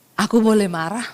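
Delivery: low, mild request; patient husband. Retold or imitated. Patient husband asking his wife, low-key and mild. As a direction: ask permission to be angry, calm and subdued. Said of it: "suami saya ini orangnya sabar".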